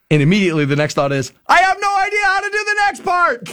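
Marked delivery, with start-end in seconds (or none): 1.5-3.5 high, panicked realization; a skier realizing he cannot stop; sudden panic. Retold or imitated. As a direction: let the fun flip into alarm. Panic while skiing too fast.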